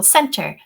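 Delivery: center said with a clear S sound at the start; clear soft c. Shown as a demonstration. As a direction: say center slowly, opening with S. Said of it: "for example".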